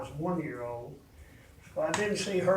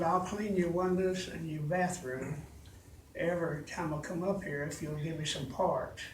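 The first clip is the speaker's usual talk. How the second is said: weak after surgery. Real, not acted. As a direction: speak gently with a weakened throat. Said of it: "I can't talk loud. I had throat surgery".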